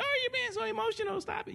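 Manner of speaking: high mock-scolding voice; a high, sneering impression of a critic. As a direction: mimic someone scolding you for being emotional. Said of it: "You know".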